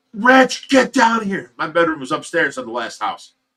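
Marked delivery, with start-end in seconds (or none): 0.2-1.5 acted-out, loud, shrill screaming call. Retelling being woken up in the morning: imitating Tracy screaming. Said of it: "Tracy screaming at me".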